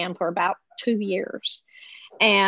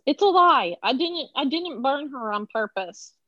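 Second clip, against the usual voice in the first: higher-pitched imitation of an excuse-maker; protesting denial; 5 semitones higher than usual. Mother imitating Josh denying he burned her daughter, protesting. Retold excuses of accused fiancé.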